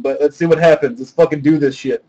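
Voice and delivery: muffled inside a helmet. Real, not acted. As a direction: talk through a helmet. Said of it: "I can't talk with the Boba Fett helmet on".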